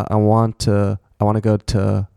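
"to" ending as "tuh"; "want to" loosened into "wanna", final "to" weak; reduced to. Shown as a demonstration. Teacher shows weak forms, "to" as "tuh". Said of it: "类似像这样子。".

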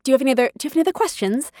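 quick imitated British caller; British accent. Casting director asks for questions, British accent. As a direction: rattle it off in a light British accent. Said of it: "She was British, had the loveliest accent".

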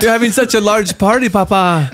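put-on Russian or French accent; foreign accent. Son phoning Papa during his party, foreign accent. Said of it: "I heard you speaking Russian and then French".

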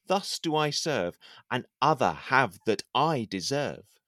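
slow, solemn poetic reading; poem recitation. Acted. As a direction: declaim it like a lovesick courtier. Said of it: "For example".

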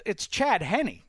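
disdainful. Retold or imitated. Retelling the coach's verdict on the quarterback, disdainfully. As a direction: dismiss the name with mock disdain. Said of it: "said it with such disdain in his voice".

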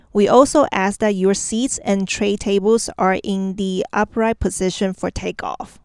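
lightly voiced in-flight cabin announcement; captain's announcement. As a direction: read it like a pilot over the PA. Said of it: "很像在飞机上要起飞之前听到的机长的广播".

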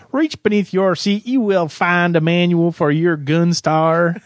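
mock English accent, the last part slowed down. Ground crew instructing Alex in a mock English accent. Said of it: "speaks in an English accent".

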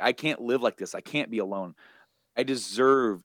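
mildly pleading, pitch lifting; a touch of desperation; retold begging. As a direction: lightly act out a plea. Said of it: "He's begging her".

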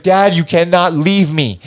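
high, slow mock plea; retold pleading. Tripping teen begging his dad to stay, retold pleading. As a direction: beg Dad slowly and high-pitched.

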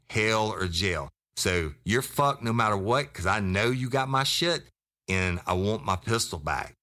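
forceful retelling of an ultimatum; worked-up storyteller replaying his own tirade; retold crazy threat. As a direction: lay down the threat, pitch jumping up on key phrases. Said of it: "I was just all crazy up on him".

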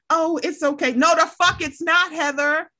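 high, exasperated protest; exasperated scolding. Acted. Rebuking Heather for excusing it, high and exasperated.

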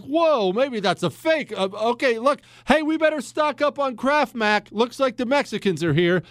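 panicked citizen. Retold or imitated. Host imitating a viewer hearing of invasion, mock panic. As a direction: play a flustered guy deciding to hoard. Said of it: "And you're like".

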